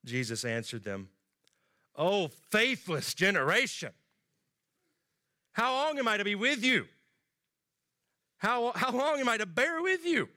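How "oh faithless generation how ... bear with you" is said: annoyed speech. Retold or imitated. Jesus to the faithless generation, exasperated. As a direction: sigh it out at the faithless crowd. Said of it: "Jesus' annoyed speech".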